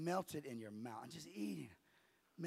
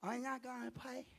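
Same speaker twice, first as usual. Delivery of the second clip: put-on broken German accent; 7 semitones higher than usual. Missionary's wife repeats herself to the pastor, broken German accent. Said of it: "In her broken accent".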